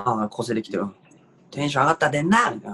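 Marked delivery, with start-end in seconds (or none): 1.5-2.5 mock yell. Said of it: "怒鳴り系いけるわ".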